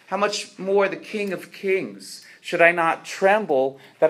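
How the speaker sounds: mildly impassioned, emphatic rhetorical questioning in a rabbi's role; dying rabbi's plea. Acted. Dying rabbi answers his disciples about facing God, lightly acted pleading. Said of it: "rabbi who's on his deathbed and he's crying".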